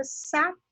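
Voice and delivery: satélite split after sa, stress on TÉ. Shown as a demonstration. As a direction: pause after sa, then lean on té in satélite. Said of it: "vai ser pronunciada com mais intensidade".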